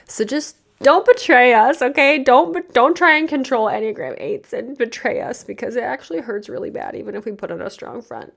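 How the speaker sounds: pleading to be trusted, voice straining; emotional plea. Real, not acted. Pageant coach begging viewers not to betray eights, near tears.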